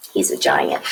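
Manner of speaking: very low, booming giant; deep giant voice. Shown as a demonstration. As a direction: drop way down for the giant. Describing the huge giant picture.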